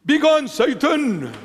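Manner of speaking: high-pitched exclaimed command; commanding rebuke. Acted. Preacher banishes Satan from the talk, commanding rebuke. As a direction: cast the devil out.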